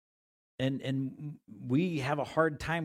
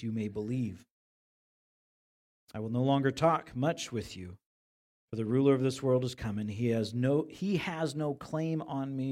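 scripture reading; 3 semitones lower than usual. Acted. Reads scripture aloud.

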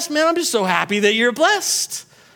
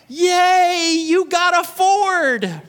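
sarcastic cheer; 6 semitones higher, much slower than usual. Pretend. Mock cheer.

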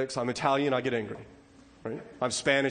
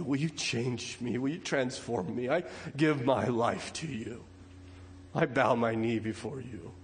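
humble prayer. Acted. Voices a prayer of repentance.

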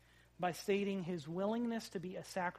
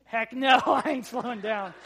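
put-on louder, playful kid daring his dad; cocky kid; 4 semitones higher, 11 dB louder than usual. Dad voicing his son racing downhill, mock cocky and loud. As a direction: toss it back with a laugh, a hint of a six-year-old.

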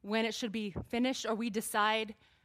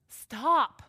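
louder, raised "stop"; firm stop; 2 semitones higher, 7 dB louder than usual. Acted. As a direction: call out a firm stop in the speaker's own register. Same word before manly take.

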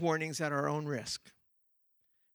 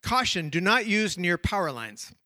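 reading a warning while laughing; laughing through it; 4 dB louder than usual. Shown as a demonstration. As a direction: try for deadpan but crack up. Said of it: "I have to do this with a straight face".

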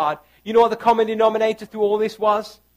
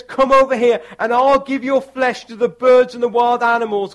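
raised, louder taunt; lightly voiced giant's threat, half-yelled; Goliath yelling; 4 semitones higher, 5 dB louder than usual. Preacher voicing Goliath's taunt, mild yell. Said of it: "Goliath yelled".

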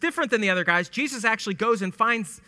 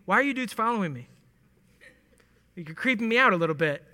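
a touch of uneasy suspicion; a lightly played wary Jesus, half joking; mildly creeped out. Shown as a demonstration. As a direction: ask as if spooked by followers. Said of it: "Or it can be".

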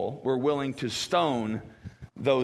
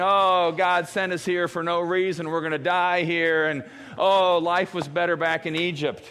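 mock wailing; 4 semitones higher, 4 dB louder than usual. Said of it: "kinda wailing and protesting".

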